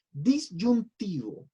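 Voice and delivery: DISYUNTIVO broken into slow, separate syllables; stressed key term. Shown as a demonstration. Teacher introducing a kind of accent, stressed key term.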